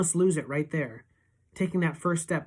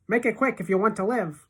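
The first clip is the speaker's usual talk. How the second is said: urgent warning; 6 semitones higher, 4 dB louder than usual. A narrator's reading. Frantic warning.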